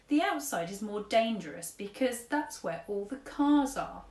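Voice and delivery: lightly voiced fussy old gent; old-fashioned gentleman. Old tramp paying at café, lightly voiced fussy gent. Mister Stink explains manners.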